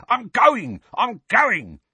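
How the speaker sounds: high, hurried, frightened retreat; cowering. A narrator's reading. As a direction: back off in panic.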